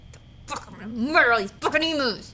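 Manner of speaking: a stunned soldier swearing revenge on the emus; mock outrage. The guy vowing to murder the emus, in mock fury. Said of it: "he's like".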